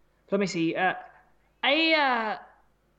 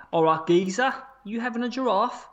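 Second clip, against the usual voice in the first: put-on Cockney geezer; amateur mock Cockney; Cockney accent; 3 dB louder than usual. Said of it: "Cockney, it's classic".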